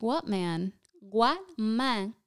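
a hint of mom's incredulous challenge; mildly mock-demand an answer as mom; lightly voiced mother. Comic imitating mom doubting any husband, mild incredulity. Mother's imagined sceptical question.

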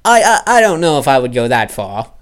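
a startled, indignant refusal; rebuff. Acted. Jordan protests loudly at Eustace's kindred souls remark.

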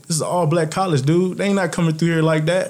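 fired-up inner voice. Retold or imitated. To himself about scouts skipping his school, mildly fired up. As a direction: get yourself worked up, lightly.

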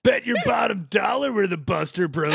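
high shouted boast; cocky bro shout. Acted. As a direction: brag like a cocky gladiator. Buster Bro boasts loudly.

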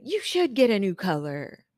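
emphatic, matching declaration; mirroring the client. Acted. Stylist mirroring a regulator's demand, emphatic. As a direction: echo the client's bold certainty. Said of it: "is to mirror their personality".

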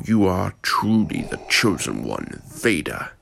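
a lightly voiced, cold old Emperor scolding his apprentice; scornful ruler reproaching a failed servant; menacing Emperor. Emperor rebukes Vader.

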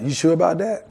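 sceptical question with a high rise; doubtful questioning. Acted. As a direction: question the instruction, unconvinced. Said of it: "You still trying to question God".

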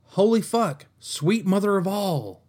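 horrified at a book excerpt, stunned outburst; stunned exclamation. Real, not acted. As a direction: react like you can't believe you just read that. Reaction to the excerpt.

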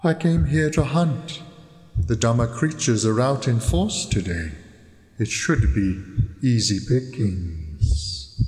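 put-on owl voice, slow and drawn out; hooting owl. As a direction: talk as a hunting owl, stretching the words. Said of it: "It hoots as if to say".

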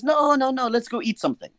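pushy, cheerful no-no-no; eager insistence. Retold or imitated. Tourist refusing to let the night end, eagerly insisting. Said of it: "He says".

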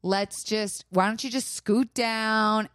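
slow, overly polite request; sweetly cordial, drawn out; mock polite. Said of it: "I was being very cordial".

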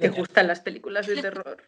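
mock creepy phone killer; distorted voice. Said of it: "intentado como poner la voz distorsionada".

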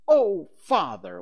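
loud, high, drawn-out dismay; scandalised daughter crying out; shocked exclamation. A narrator's reading. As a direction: exclaim slowly in shocked reproach. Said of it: "Wendy exclaimed".

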